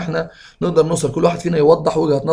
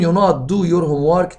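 slow dictation; much slower than usual. Shown as a demonstration. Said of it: "teacher reads exam sentence".

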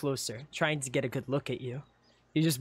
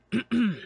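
short, formal throat clear; 8 semitones higher than usual. Acted. Guard preparing to address you, throat clear. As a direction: clear the throat before speaking. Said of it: "He clears his throat".

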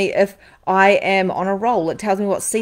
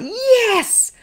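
triumphant yes; 4 dB louder than usual. Retold or imitated. Contrasting passion, triumphant cry.

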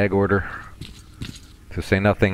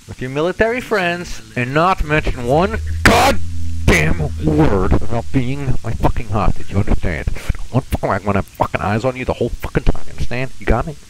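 hammed-up Russian threat, leaning hard on the swearing; thick fake Russian accent; 4 semitones higher, 4 dB louder than usual. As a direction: menace a captive in mock-Russian. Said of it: "terrible fake Russian accent a little thick".

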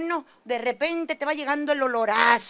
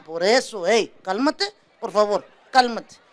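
mock calm husband; 5 semitones lower than usual. Esposo calmado calma a esposa.

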